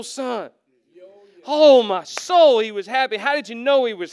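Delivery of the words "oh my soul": preacher's exclamation. Real, not acted. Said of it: "preacher's exclamation".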